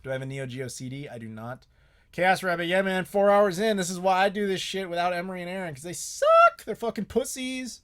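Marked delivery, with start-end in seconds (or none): 2.1-7.8 loud, higher, fast excited rant; excited shouting. Real, not acted. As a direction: fire it off, hyped and loud.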